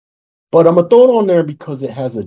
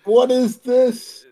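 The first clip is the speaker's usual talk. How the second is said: high, slow, baffled wondering; lightly voiced confusion; puzzled inner voice; 13 semitones higher, slower than usual. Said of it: "I thought".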